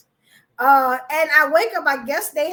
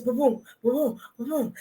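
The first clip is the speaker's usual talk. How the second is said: heartbeat imitation; 2 semitones lower, 4 dB quieter than usual. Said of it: "My heart rate is".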